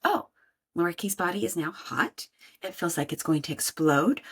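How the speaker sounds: a light walk-through of naming body sensations; half-acted inner voice noticing anger; demo of noticing anger. Shown as a demonstration. Speaker to listeners, demonstrating noticing anger, calmly. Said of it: "learn what anger feels like".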